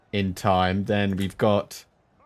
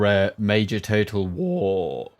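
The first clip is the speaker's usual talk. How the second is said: voice crack; slower than usual. Real, not acted. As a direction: voice cracking on "War". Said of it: "Ooh, voice crack".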